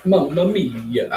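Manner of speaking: high, slow, stretched-out hammed-up Italian accent. Savouring soup on his live stream, mock Italian accent. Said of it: "I'm doing that Italian thing".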